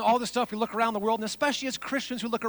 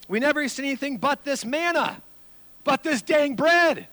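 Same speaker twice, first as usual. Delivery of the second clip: mock wailing; 3 semitones higher than usual. Preacher mocking the Israelites' wailing for meat, whiny and building. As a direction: whine like grumbling Israelites, building up. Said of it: "started wailing and said".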